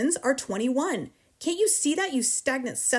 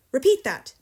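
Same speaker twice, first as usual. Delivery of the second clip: loud, raised command; shouted order; 4 semitones higher, 8 dB louder than usual. A narrator's reading. Headmistress orders dangling pupil to repeat, shouting. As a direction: demand it at a shout. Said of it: "the Trunchbull shouted".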